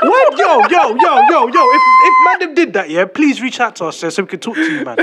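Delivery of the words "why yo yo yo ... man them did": high, loud laughing outburst; laughing disbelief. Real, not acted.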